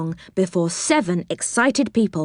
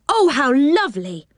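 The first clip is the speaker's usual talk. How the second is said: higher, thrilled exclamation; delighted exclamation; 6 semitones higher than usual. A narrator's reading. Boy thanking his aunt, delighted and high. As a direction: let the delight lift your pitch.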